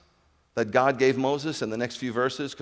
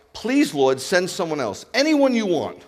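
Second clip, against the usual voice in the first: pleading; 4 semitones higher, 4 dB louder than usual. Acted. Moses begs God.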